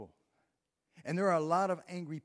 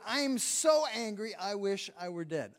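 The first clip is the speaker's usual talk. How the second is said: loud, higher angry cry; angry Jonah; 4 semitones higher, 5 dB louder than usual. Acted. Jonah telling God he'd rather die, loud and furious. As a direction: throw the words out in full fury. Preacher voicing Jonah's despair.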